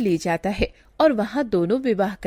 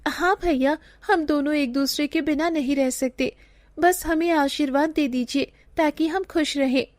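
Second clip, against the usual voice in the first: put-on pleading young sister; 5 semitones higher than usual. Sugandha begs brother's blessing.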